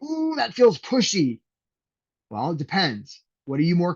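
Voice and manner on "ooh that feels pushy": high, slow fretful "ooh"; hammed-up nervous doubt, drawn out; mock hesitant worry. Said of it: "some of you will be like".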